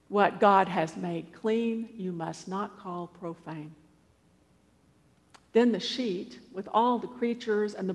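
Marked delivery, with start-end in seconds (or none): 0.1-3.7 slow, measured decree, fading softer at the end; solemn repetition. Acted. The voice telling Peter a third time, solemn. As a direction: repeat it patiently, letting the last words drop away. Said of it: "has to say it three times".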